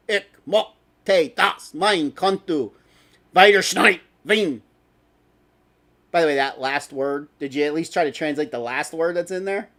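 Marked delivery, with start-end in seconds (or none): 0.1-4.6 very slow, careful German read haltingly; slow, clumsy German in an American voice. Real, not acted. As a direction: spell out each German word slowly, unsure. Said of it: "sounds more like I'm speaking Klingon".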